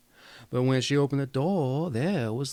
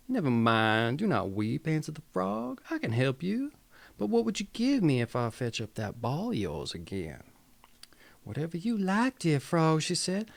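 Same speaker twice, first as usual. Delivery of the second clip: put-on Southern accent. Storyteller reading the Grimm tale to viewers, light Southern accent. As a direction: tell the frog story with a hint of a Southern accent. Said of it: "gonna chew my southern voice there".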